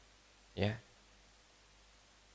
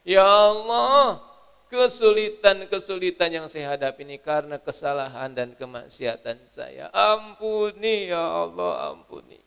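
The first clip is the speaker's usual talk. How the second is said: pleading prayer, drawn out; mock tearful prayer; 4 semitones higher, 9 dB louder than usual. Preacher models a night prayer begging forgiveness, drawn out. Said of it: "sujud, nangis pada Allah, tumpahkan dan minta ampun".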